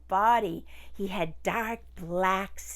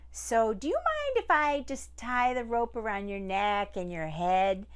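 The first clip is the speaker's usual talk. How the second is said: lightly voiced sly man; crafty man. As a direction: coax the tiger politely. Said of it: "but he said".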